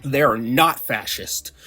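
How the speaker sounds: "They are not fascist" spelled out slowly, word by word; slow, mock-patient stress through "not fascist"; emphatic repetition. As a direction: hammer home "They are not fascist" at a deliberate pace. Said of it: "so I'll say it again".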